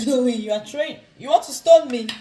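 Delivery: high loud playful scold; talking to a dog. Real, not acted. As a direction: scold the dog, half laughing. Dog playing, owner scolds.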